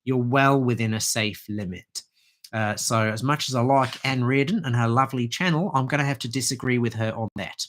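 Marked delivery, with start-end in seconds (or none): 2.5-7.7 put-on a faint, quick stab at an Australian accent; just a hint of Aussie, tongue in cheek; light Australian accent. Herbalist teasingly mimics Anne Reardon in a light, hammy Australian accent. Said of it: "Sorry about that terrible Australian accent".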